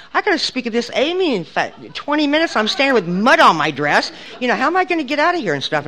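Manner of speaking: trapped in a grave, late for a meeting, panicking; panicked inner voice. Retold or imitated. Speaker stuck in grave, late to speak, panicking aloud.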